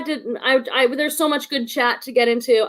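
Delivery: real false starts from excitement; excited stuttering. Real, not acted. Host eager to get into the chat, stuttering. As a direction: trip over your words, too much to say. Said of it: "I'm, like, stuttering 'cause I'm so excited".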